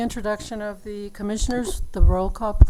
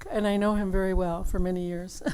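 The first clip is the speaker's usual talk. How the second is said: ordinary talk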